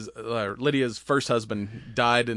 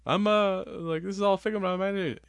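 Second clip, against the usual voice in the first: mock panic; 9 semitones higher, faster than usual. Panicked boyfriend quoted.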